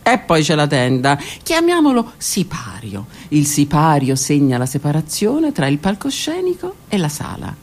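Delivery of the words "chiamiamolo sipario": slow, breathy whisper; whispered aside. Acted. Whispering to the audience, slow hushed aside. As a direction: let the word drop to a whisper. Aside naming the curtain stage.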